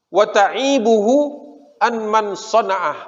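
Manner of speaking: mock shout. Jews shouting from the fort at Muhammad, slow mock call. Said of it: "Jadi teriak gitu".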